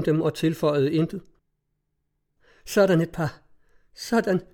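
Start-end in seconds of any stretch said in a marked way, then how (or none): 2.7-3.4 contempt. A narrator's reading. Mother's contempt at the couple. 3.9-4.4 disgusted. A narrator's reading. Mother repeats in disgust.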